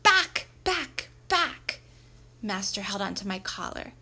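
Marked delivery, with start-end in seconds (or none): 0.0-1.8 high, loud, sharp dog barks; barking. A narrator's reading. Dog warning the man with the axe, barking. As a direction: bark the word like a dog.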